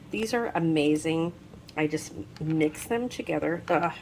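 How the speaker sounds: slurring from a bitten tongue; talking around a sore tongue; just bit tongue. Real, not acted. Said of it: "That's why I'm slurring".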